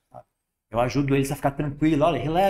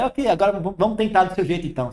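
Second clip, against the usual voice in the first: joking; 5 semitones higher than usual. Retold or imitated.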